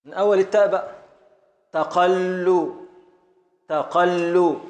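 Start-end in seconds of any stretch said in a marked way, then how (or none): 1.7-2.8 تقل stretched slowly, each syllable drawn out; slow scansion. Shown as a demonstration. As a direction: spell out the beat of تقل slowly. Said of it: "حركة، حركة، سكون".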